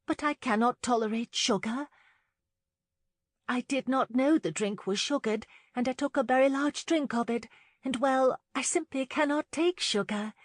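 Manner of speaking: high, flustered over-explaining; nervous. A narrator's reading. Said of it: "she said nervously".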